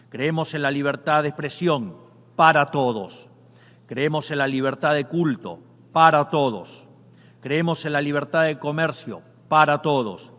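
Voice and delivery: rising to a rousing shout; booming balcony speech. Real, not acted. Rising anaphora climax of UN speech.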